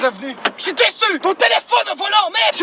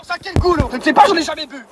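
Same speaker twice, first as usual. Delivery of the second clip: louder mock outburst about water; mock disgusted yell; 6 dB louder than usual. Comic driver bellowing disgust at the taste of water.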